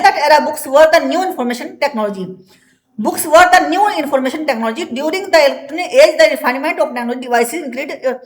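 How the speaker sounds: slow, deliberate dictation pace; teacher dictating from the book; slow textbook reading. Acted. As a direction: read it out word by word for the class. Reads textbook English aloud slowly.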